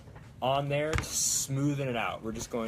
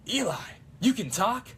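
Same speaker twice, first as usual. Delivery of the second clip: loud, higher attempt at an old-man hero; badly faked older action star; Bruce Campbell; 10 semitones higher, 5 dB louder than usual. Fan attempting old man Bruce Campbell, loud raised impression. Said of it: "not old man Bruce Campbell enough".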